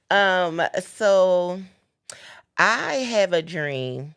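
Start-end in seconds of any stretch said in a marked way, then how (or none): 2.6-4.1 slow, lightly orated famous line; a hint of the great civil rights speech, slowly; Martin Luther King. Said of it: "Come on, Luther".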